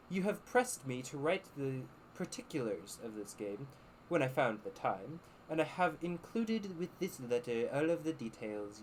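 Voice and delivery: lightly posh English letter voice. Acted. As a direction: read it like a refined gentleman. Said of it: "I need to do a more posh voice for this".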